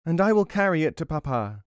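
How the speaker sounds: high-voiced helpful boy; little boy. A narrator's reading. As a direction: offer help as a small child. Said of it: "said the boy".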